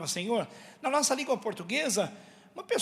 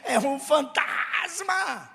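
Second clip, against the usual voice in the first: drawn-out, high cry of terror; hammed-up frightened shout; terrified cry; 4 semitones higher, much slower than usual. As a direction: cry out slowly as if seeing a ghost. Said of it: "ficaram aterrorizados e disseram".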